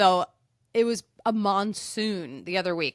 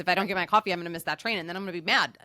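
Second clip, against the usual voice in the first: mock-angry commuter rant; irritated commuter. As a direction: snap like a rushed city commuter. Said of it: "it's like".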